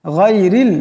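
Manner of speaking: গায়রিল with a light thin Ra and heavy Ghain; গায়রিল in careful tajweed; thin Ra sound. Shown as a demonstration. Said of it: "রাকে পাতলা আওয়াজে পড়তে হবে".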